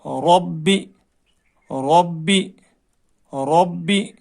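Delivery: ربی with a full, heavy ر. Shown as a demonstration. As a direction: give the ر in ربی a thick sound. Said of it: "پر، جیسے".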